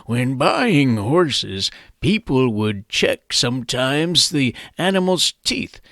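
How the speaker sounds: a hint of a creaky old-timer telling how it was; old guy voice. Host explaining horse trading, in a light old man voice. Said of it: "Let me use my old guy voice".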